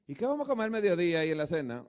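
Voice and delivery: quick, laughing mock worry; chuckling impression of worried people; laughing imitation. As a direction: tease the fretting folks. Imitating people fretting over meals.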